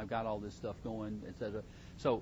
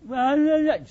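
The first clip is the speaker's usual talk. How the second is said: mock child's reluctant answer; 13 semitones higher, 16 dB louder than usual. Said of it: "they come out and say".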